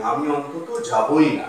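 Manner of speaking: যাবই pressed with a falling close; stress on যাবই. Shown as a demonstration. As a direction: insist on যাবই. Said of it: "আমি জোর দিয়ে বলছি". (যাবই শব্দে জোর)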